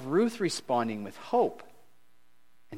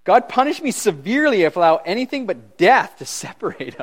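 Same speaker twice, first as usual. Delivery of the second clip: loud, higher, impassioned vow; earnest vow; 6 semitones higher, 10 dB louder than usual. Retold or imitated. Preacher voices Ruth's vow to Naomi, loud and impassioned. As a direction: proclaim Ruth's vow with full force. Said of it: "what did she say".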